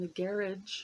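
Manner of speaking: garage said as GA-ridge, stress up front; English pronunciation. Shown as a demonstration. Showing viewers how the English say it, garage as GARR-idge. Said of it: "I believe that's how they say it".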